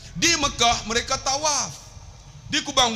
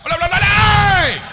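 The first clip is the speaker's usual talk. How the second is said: calling out; 11 semitones higher, 10 dB louder than usual. Real, not acted. Preacher to the back rows who left, calling out.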